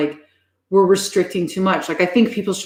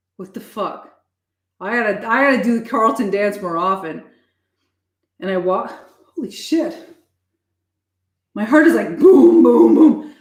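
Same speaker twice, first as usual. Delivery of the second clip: panting, out of breath, higher; 3 semitones higher, 3 dB louder than usual. Reacting right after doing a dance: out of breath. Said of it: "Why am I out of breath?".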